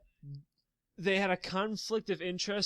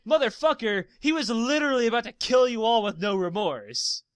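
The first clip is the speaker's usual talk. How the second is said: exasperated retort; 4 semitones higher, 5 dB louder than usual. Retold or imitated. Player's exasperated retort to characters.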